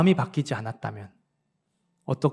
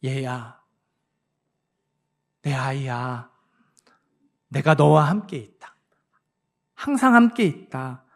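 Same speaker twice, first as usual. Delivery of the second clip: God's tender voice. Retold or imitated. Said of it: "우리가 들어야 할 음성이".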